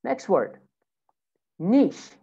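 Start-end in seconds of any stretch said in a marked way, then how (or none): 1.6-2.1 British "niche", NEESH; British pronunciation. Shown as a demonstration. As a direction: say "niche" with long ee and SH. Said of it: "In British accent".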